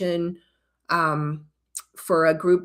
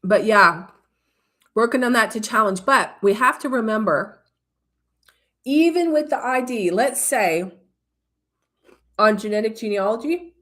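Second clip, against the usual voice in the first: talking around ice cubes; chewing ice. Real, not acted. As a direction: speak while crunching ice. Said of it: "sorry, I'm chewing ice".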